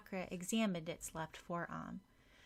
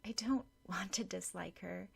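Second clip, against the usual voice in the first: gravely. Acted. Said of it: "replied gravely".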